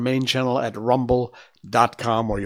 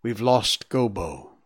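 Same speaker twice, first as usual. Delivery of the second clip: lamenting; slower than usual. Acted. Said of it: "she lamented".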